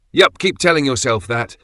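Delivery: dry, teasing sarcasm; sarcastic. A narrator's reading. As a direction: roll your eyes at your brother. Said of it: "said Marcus sarcastically".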